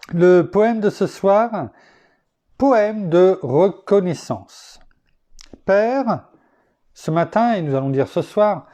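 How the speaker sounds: measured, declaimed prayer-poem; poem recited to God; devotional poem reading. Acted. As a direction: read it out as a solemn poem, with pauses. Reads devotional poem aloud.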